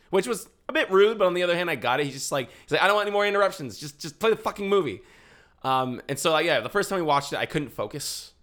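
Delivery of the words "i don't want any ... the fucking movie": fed-up moviegoer. Retold or imitated. Retold fed-up moviegoer's demand.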